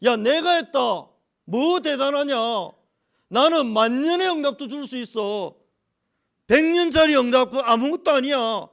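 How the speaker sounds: 하나님 말씀 흉내. Retold or imitated. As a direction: retell God's rebuke, stretching the words loudly. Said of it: "하나님이 계속 제 마음에". (하나님이 따지시듯 크고 높게)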